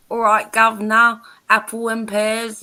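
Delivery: hammed-up London Cockney greeting; Cockney accent. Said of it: "Then you've got Cockney".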